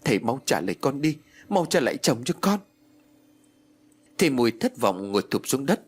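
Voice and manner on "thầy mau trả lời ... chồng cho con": higher, pressing, acted scolding; hurried reproach. Widow scolding the master over her dead husband, urgent. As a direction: demand answers from the master, rising. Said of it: "Bà vội vã trách móc".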